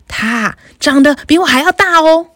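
a bigger goat answering in a bigger voice. Acted. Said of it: "用比第一只山羊还要大一点的声音回答".

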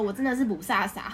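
usual speaking voice

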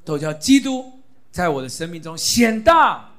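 loud proclaiming reading with 大 stressed; read aloud loudly. Shown as a demonstration. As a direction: read the verse out boldly, 大 ringing out. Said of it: "大声的念".

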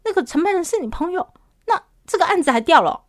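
surprised remark. Retold or imitated. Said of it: "无意间的一句话说".

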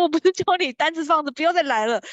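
high, loud scolding of a pushy salesman; mock the receptionist telling him off; retold receptionist snapping at the salesman; angry receptionist. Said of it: "那小姐就更生气".

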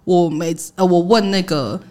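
measured, serious delivery in retelling; very earnest. Retold or imitated. Teacher to former pupil met on a bus, earnest. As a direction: say it slowly and sincerely, as the old teacher. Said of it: "很认真的跟我讲说".

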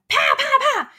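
loud, high mimicked smacks; three hard slap noises made by voice; imitated slapping. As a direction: act out the slaps with explosive force. Imitates mother's slaps in story.

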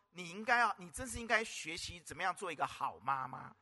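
put-on quoting the child through a laugh; can't keep a straight face telling it; chuckling over the child's cheeky advice; laughing while quoting. Toddler advises mother, preacher laughing.

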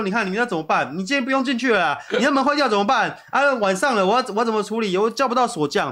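lightly voiced annoyed mother scolding the kid; imitating a scolding mom. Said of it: "然后就一直骂我". (轻轻模仿妈妈数落孩子)

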